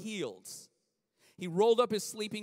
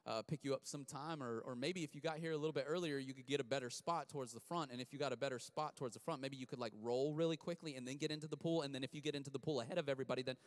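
mock excuse; 5 semitones lower, 7 dB quieter, faster than usual. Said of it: "He didn't sit there and go".

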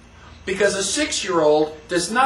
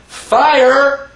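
shouted alarm, higher and louder; mock shout of fire; 6 semitones higher, 8 dB louder than usual. Warning the theater crowd of a real fire, a loud alarmed shout. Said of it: "by going".

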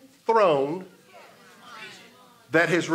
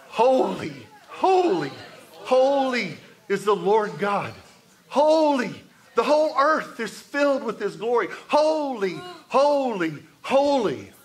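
ringing proclamation; 4 semitones higher than usual. Acted. Preacher proclaims angels' endless cry.

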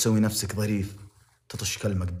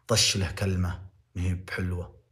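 ordinary talk, nothing marked

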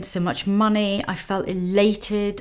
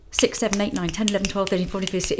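rapid counting; much faster than usual. Shown as a demonstration. She shows how fast the auction bids climbed, rattling them off. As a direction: rattle the bids off one after another. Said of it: "that's how fast it went".

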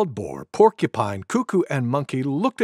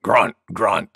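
low grunting boar; wild boar; 7 semitones lower than usual. Acted. Wild Boar breaks in on the others, low grunts. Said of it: "said Wild Boar".

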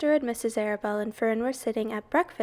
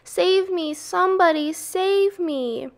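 high, loud panicked pleading; screamed plea; 8 semitones higher, 4 dB louder than usual. A narrator's reading. Pig begs anyone to save him, screaming in panic. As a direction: cry out desperately for rescue. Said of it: "screamed Wilbur".

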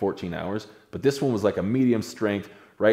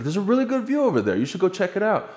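high, sing-song taunt; mock-innocent teasing; 12 semitones higher than usual. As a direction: needle him with fake helpfulness. The speaker teasing scared Ryan.

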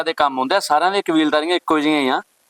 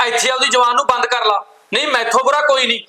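higher, sharp threat to hold her tongue; angry warning; 4 semitones higher than usual. Acted. Husband threatening his wife to stop talking, angry. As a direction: warn her hard, voice raised.

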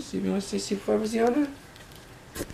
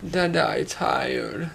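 slow, drawn-out mock tiredness; softly dragged-out child's complaint; imitating tired child; 5 dB quieter, much slower than usual. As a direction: stretch it like a weary little one. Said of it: "She told me to say".

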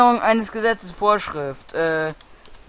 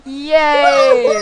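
cheering; 9 semitones higher, 5 dB louder than usual. Real, not acted.

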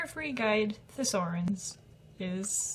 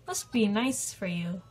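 sarcastic. Acted. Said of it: "Sarcastic guy".

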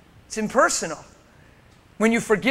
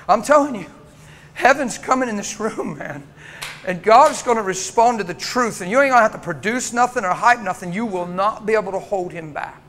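fiery preaching. Acted. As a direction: preach it hard, building faith. Preaching at full force.

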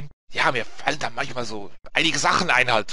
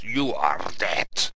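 drawn-out, slightly lower quote; slow game-over readout; 5 semitones lower, much slower than usual. Retold or imitated. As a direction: stretch the words out slowly. Reading the game's death screen.

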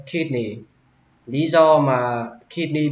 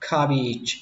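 "cabbage" dropping on "-bage"; falling second syllable; 3 dB quieter than usual. Shown as a demonstration. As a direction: let the end of "cabbage" fall. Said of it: "Xuống giọng chữ beach".

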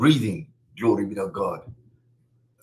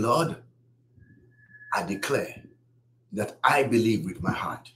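guided prayer. Real, not acted. Leads a salvation prayer.

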